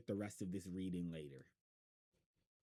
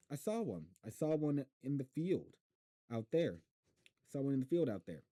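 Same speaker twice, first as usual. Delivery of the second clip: excited; 6 semitones higher, 5 dB louder than usual. Acted. Boy excited about raptor.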